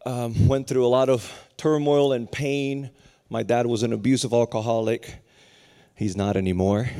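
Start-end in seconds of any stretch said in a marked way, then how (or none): none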